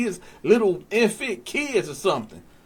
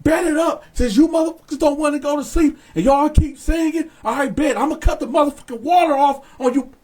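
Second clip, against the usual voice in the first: raised, pushy mock yell; imitating screaming back; 4 semitones higher, faster than usual. Guard screaming back threats at inmates, retold yelling. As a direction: threaten them like a fed-up guard. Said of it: "So he's screaming back".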